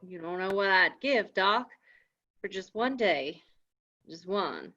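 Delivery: wistful longing. Acted. Jim longs to be free.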